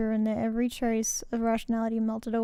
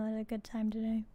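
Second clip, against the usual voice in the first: quiet deadpan; 2 semitones lower, 11 dB quieter than usual. Real, not acted. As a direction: mutter it back worn out.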